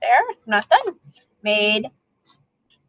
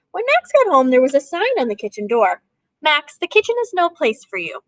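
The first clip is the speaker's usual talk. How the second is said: lively storybook reading to a class; reading to children. A narrator's reading. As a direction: read it like a picture book for kids. Teacher reads picture book aloud.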